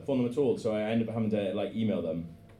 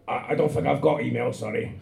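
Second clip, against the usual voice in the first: put-on Welsh accent; 3 dB louder than usual. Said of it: "I'm gonna do it in that fucking hot shit Welsh voice".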